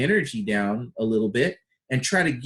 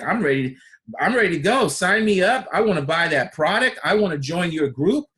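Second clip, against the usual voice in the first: eager and higher, louder; imitating an eager buyer, higher and louder; confident; 4 semitones higher, 3 dB louder than usual. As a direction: sign me up energy. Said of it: "Are they confident?".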